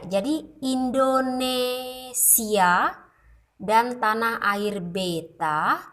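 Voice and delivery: slow, with a break before "dan tanah air beta"; phrasing demo. Shown as a demonstration. Teacher marking the phrase break for students, slow. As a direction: pause cleanly between "Indonesia" and "dan tanah air beta". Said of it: "itu adalah contoh prasering".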